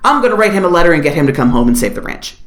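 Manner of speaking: low, fast, mock-furious wife vowing to fight; lightly voiced angry wife rattling off her plan; mock Helen Mirren wife. Wife rants about nursing the husband back, low and fast. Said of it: "Helen Mirren, his wife, is like".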